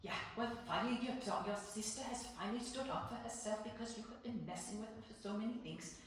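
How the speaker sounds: imitated mother with a Danish accent. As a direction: scold a child in a Danish accent. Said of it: "I hear my mom say in her Danish accent".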